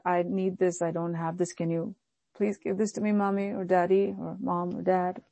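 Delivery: quietly asking mommy or daddy, meek; humble asking. Retold or imitated. Child humbly asking parents for something, meek and soft. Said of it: "It's not that".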